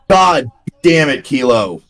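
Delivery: real high, drawn-out exasperation; exasperated scolding. Real, not acted. Streamer to the cat interrupting him, exasperated. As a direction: scold a misbehaving pet, pitch falling away.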